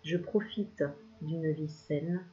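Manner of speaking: slow, even mantra reading; calm affirmations. Acted. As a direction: recite each line as a soothing affirmation. Reads a list of affirmations. (affirmations lentes et posées)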